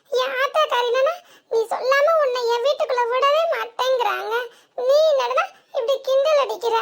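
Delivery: half laugh, half sob, as you complain; a whine that breaks into giggles and tears; tearful laughing complaint; laughing through tears. Acted.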